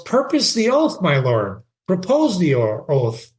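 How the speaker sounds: reading Shakespeare aloud with feeling; dramatic reading. Acted. Teacher reading Horatio to the class, dramatic reading. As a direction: give Horatio's line a lively read.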